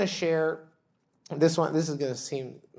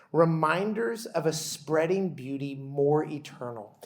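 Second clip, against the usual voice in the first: slow, solemn prayer voice; liturgical prayer reading. Acted. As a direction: read it as a devout responsive liturgy.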